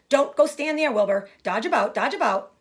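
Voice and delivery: high, loud goose cry; a goose crying out to the pig; cried goose. Acted. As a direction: honk the orders urgently. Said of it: "cried the goose".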